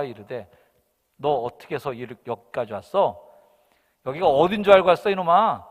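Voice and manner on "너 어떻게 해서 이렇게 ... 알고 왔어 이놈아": scolding. Acted. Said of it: "큰형이 야단을 칩니다".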